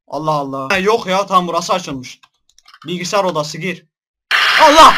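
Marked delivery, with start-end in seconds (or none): 4.6-4.9 high, loud scream of real fright; frightened shriek. Real, not acted. Player shrieks at a jump scare, genuinely terrified. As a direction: yelp in panic as something jumps out.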